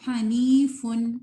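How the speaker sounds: "حنیفن" slow, only a slight ghunna on the nun; correct light nasal. Shown as a demonstration. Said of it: "نی نہیں کہنا". (ہلکا غنہ صرف نون میں)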